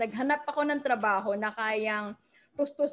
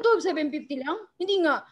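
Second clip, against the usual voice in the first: surprised disbelief; 4 semitones higher than usual. Retold or imitated. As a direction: ask it like you can't believe how cheap it is. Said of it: "Sabi ko".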